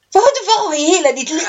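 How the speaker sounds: quick, high, laughing through the words; laughing quote. Retold or imitated. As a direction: retell it while cracking up. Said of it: "Och då säger hon".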